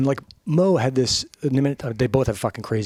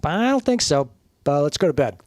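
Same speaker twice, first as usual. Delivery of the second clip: doubtful husband; 4 semitones higher than usual. Retold or imitated. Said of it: "And the husband's like".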